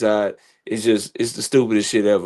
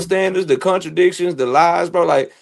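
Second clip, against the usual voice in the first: worked-up, higher-pitched rant; real rant; 6 semitones higher than usual. Real, not acted. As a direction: rant about double standards, pitch climbing. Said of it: "I don't mean to go on a rant".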